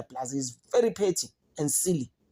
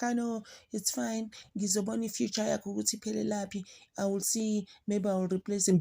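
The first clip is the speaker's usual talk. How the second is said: mock Ramaphosa; 7 semitones higher, 4 dB quieter than usual. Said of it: "Cyril Ramaphosa was just like".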